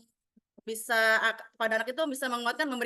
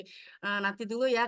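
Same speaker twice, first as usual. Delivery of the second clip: polite soothing; slower than usual. Retold or imitated. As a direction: talk the child down kindly. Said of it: "dengan bahasa kita yang santun". (membujuk dengan lembut dan santun)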